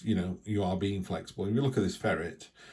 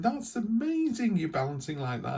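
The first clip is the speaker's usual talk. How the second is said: amazed gushing; 12 semitones higher than usual. Pretend. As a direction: gush over the ferret, pitch soaring. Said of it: "And you're going".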